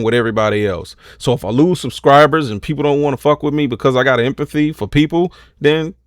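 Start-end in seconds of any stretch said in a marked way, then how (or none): 5.6-5.9 slow, louder, every word spelled out; drawn-out defiant brush-off to the haters. Real, not acted.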